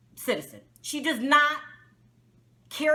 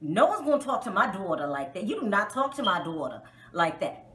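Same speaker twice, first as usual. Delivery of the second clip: lightly put-on southern accent, lower pitch; Toya; 5 semitones lower than usual. Mother defending her daughter, imitated southern accent. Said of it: "I gotta do the Toya voice 'cause she's got the southern accent".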